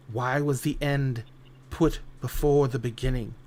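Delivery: stern eldest sister. Acted. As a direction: speak as the eldest, grave and accusing. Eldest sister's solemn speech.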